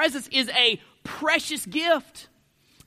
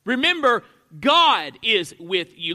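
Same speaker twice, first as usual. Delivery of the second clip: firm, slow repeat leaning on "God"; stress on GOD; 3 dB louder than usual. Shown as a demonstration. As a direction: hit "God" hard and let "is with you" drop. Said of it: "emphasizing a different word".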